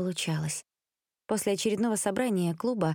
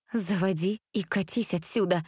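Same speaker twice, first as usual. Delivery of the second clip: stern threat; 2 semitones higher than usual. Acted. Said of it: "грозно сказала Элизабет".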